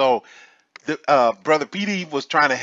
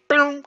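imitated knee buckle; 11 semitones higher than usual.

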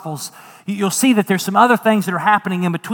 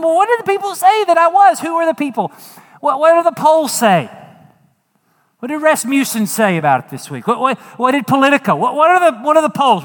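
mock incredulous Jesus; 7 semitones higher than usual. Jesus quizzing his disciples, high and playful. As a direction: play Jesus teasing them about the polls. Jesus asking about polls, rising.

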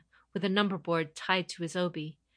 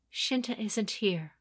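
wavering, careful; 5 semitones higher, slower than usual. Acted. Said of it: "her voice wavering".

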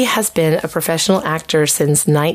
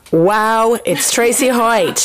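big, slow, higher game-show welcome; excited announcer; 5 semitones higher, much slower than usual. Acted. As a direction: present her like a star. Grand welcome of the guest.

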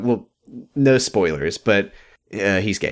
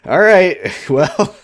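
mock Ashley; 5 semitones higher, 4 dB louder, much slower than usual. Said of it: "she's like".

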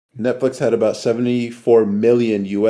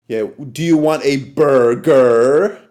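slow mock British accent; imitating a London waiter, no R's; 3 dB louder than usual. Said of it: "it's like".

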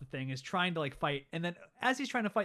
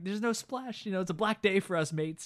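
higher, louder mock pirate lament; gloomy pirate; 5 semitones higher, 5 dB louder than usual. Pirate telling his mates, higher and louder. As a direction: ham up a superstitious sailor's lament.

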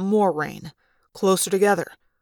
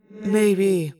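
calm. Acted. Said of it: "Tobias said calmly".

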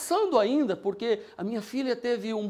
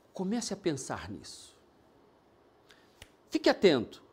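lower, calm guiding voice; guided visualization; 5 semitones lower than usual. Acted. Pastor guiding listeners to close their eyes and imagine, low and calm.

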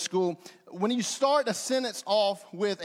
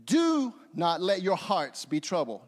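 "Do" held long at the top, the rest falling away; stress on DO; 4 semitones lower than usual. Shown as a demonstration. Preacher emphasizing each word of the verse, stress on "Do". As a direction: hit and stretch the first word "Do". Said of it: "can I do that with you".

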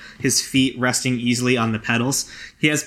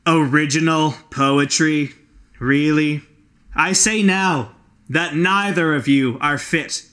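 contemptuous; 3 semitones higher than usual. Acted. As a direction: look down on them and proclaim. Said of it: "a contemptuous sigh, he says".

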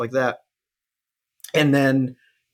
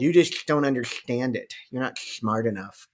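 nasal know-it-all nerd. Retold or imitated. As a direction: sneer it like a smug nerd. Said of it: "is that your go-to nerd voice".

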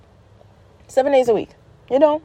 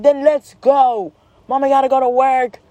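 exasperated mom; 5 semitones higher than usual. Retold or imitated. Mom hurries daughter from the park, exasperated. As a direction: push each word out higher, fed up. Mom urging child, acted.

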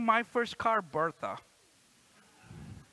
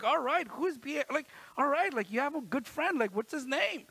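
curious dad; 7 semitones higher than usual. Retold or imitated. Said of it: "I was like".

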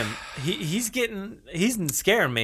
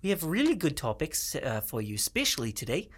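undersell the hype on purpose; 6 dB quieter than usual. Pretend. Cohost mocking the hype intro.

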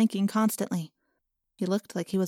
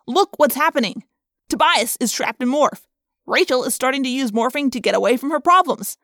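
raised, urgent argument; agitated Marco; 4 semitones higher, 5 dB louder than usual. Acted. Marco listing how the team is falling apart, agitated. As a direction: make the case with growing alarm.

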